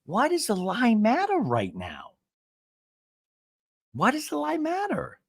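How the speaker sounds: hammed-up frustrated question; exasperated plea. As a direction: repeat the appeal in theatrical disbelief. Repeating Gina's plea with emphasis.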